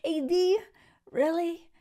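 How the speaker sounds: high, loud incredulous squeal; shocked disbelief. Retold or imitated. Viewer reacting to A D staying with Clay, shocked squeal. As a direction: react like you can't believe she'd stay.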